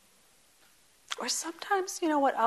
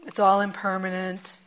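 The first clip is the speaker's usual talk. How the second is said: dismissive, brushing it off; averse tone; 3 semitones lower than usual. Retold or imitated. Teacher mocking a dismissive take on impermanence, mildly averse. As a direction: say it with a little aversion. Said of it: "you notice the tone of my voice. There's aversion in it".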